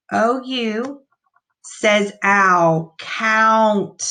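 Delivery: "owl" drawn out as the ou sound, then "count"; teacher sounding out "O U says owl". Shown as a demonstration. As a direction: stretch the ou in "owl". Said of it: "I wanna point that out to you".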